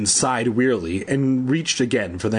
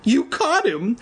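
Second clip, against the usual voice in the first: grateful cry; 9 semitones higher, slower than usual. A narrator's reading. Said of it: "Evan cried gratefully".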